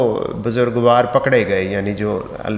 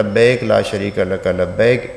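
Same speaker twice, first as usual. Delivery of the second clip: correct recitation; 3 semitones lower, slower than usual. Shown as a demonstration. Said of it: "میں نے عرض کیا نا".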